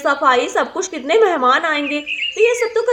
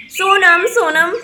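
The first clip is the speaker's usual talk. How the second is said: calling a name; 2 semitones higher, 5 dB louder, much slower than usual. Acted. Mother searches for hidden daughter, loud call. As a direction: call the name across the house.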